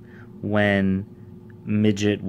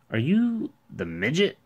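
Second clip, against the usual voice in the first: higher, hesitant question; hint of uncertainty; 7 semitones higher than usual. A narrator's reading. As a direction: ask a little unsurely. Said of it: "with a hint of uncertainty in his voice".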